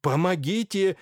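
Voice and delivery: громкий испуганный зов; позови на помощь в испуге; крик о помощи. Acted. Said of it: "снова закричал Андрей Артемьевич". (Андрей Артемьевич зовёт на помощь, громко)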